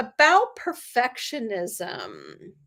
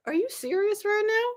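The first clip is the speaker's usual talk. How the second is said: sarcastic; 8 semitones higher, 3 dB quieter than usual. Retold or imitated. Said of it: "I was being very sarcastic".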